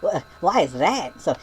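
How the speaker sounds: ordinary talk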